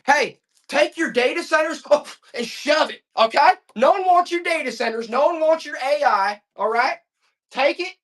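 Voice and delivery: indignant shouting at big tech; angry rant. Real, not acted. Heated rant at data centers.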